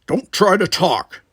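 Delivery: slow, loud firm warning; stern but protective, slowly. Acted. Worf warning the rescued Tanya, slow and firm. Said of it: "he warned her".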